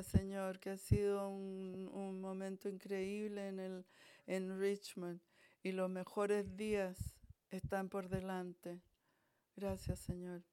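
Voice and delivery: fervent pleading prayer to the Lord; heartfelt prayer. Acted. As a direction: pray it with rising fervour. Pastor prays over the church.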